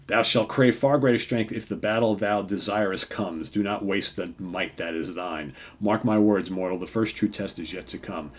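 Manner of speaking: fluent, mildly grand archaic warning; lightly voiced Thor. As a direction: deliver the whole warning in one sweep. Rereading Thor's speech in full.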